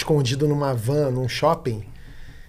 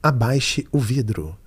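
slow, firm machine command; 4 semitones lower, slower than usual. Retold or imitated. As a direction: order it slowly like a machine. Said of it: "Aí eu falava assim".

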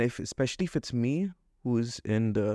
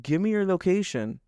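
fed-up sarcasm; 7 semitones higher than usual. Retold or imitated. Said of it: "ask them".

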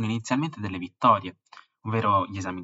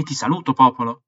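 higher, loud pompous salute; grand farewell; 5 semitones higher, 12 dB louder than usual. Acted. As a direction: boom it out to the crowd.

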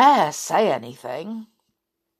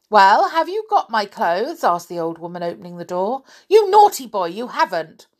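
put-on bossy old woman; 5 dB louder than usual. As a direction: bark orders like a fierce old lady. Old woman scolds Rick.

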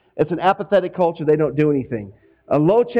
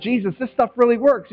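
excited disciples; 6 semitones higher than usual. Retold or imitated.

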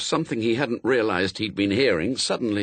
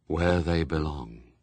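low, slow figure of Death; solemn Death; 6 semitones lower than usual. A narrator's reading. Death answering a question, solemn low voice. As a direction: intone it slowly and low.

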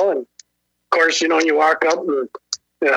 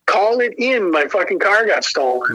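pushy urging; 3 semitones higher than usual. Retold or imitated. Man pushing a cop to report his stolen car, pushy. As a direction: press him verbally, a touch exasperated. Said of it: "I'm kind of pushing him a little bit".

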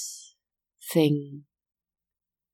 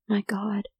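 soft shocked whisper; 4 semitones higher, 5 dB quieter than usual. Acted. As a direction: barely voice it, stunned. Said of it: "she whispered".

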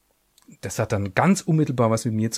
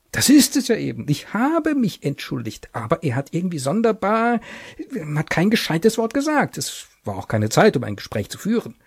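higher, worried, fretting clerk; anxious clerk; 6 semitones higher than usual. Acted. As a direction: fret anxiously to your wife. Anxious husband pleads.

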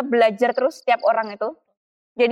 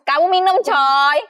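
laughing; 4 semitones higher, 4 dB louder, much slower than usual. Real, not acted. Teasing friend about spicy food.

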